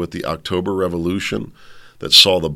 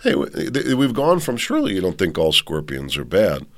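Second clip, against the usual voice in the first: louder, higher, indignant scorpion voice; ranting scorpion; 7 semitones higher, 5 dB louder than usual. Acted. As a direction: harangue the frog as an aggrieved scorpion. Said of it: "So the scorpion comes along and says".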